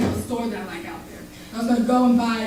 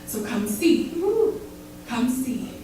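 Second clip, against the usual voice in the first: rhythmic, intense slam poetry delivery; charged spoken-word recital; spoken word poem; 3 semitones higher than usual. Acted. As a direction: perform it like a slam poet on stage.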